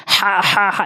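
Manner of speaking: হা, হা, হা said as the faulty version; wrong ha. Shown as a demonstration. Teacher warns learners, mistaken হা repeated as a demo. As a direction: show how হা should not sound. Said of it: "এভাবে বলা যাবে না".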